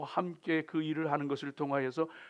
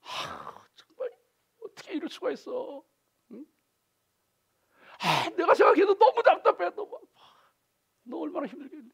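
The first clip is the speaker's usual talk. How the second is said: empathizing; 11 semitones higher, 4 dB louder than usual. Retold or imitated. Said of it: "공감해 주는".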